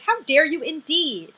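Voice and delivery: loud, laughing mock outrage; mock indignant. Mocking Dee's indignation, loud and laughing. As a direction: throw her own line back, loud. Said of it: "I was like".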